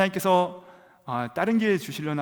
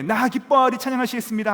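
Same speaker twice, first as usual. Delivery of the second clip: high, loud and upbeat song leader; cheerful worship leader; 9 semitones higher, 7 dB louder than usual. Retold or imitated. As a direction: hype the crowd into praise. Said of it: "저는 하나도 안 기쁜데". (신나게 찬양을 시작하는 간사 목소리)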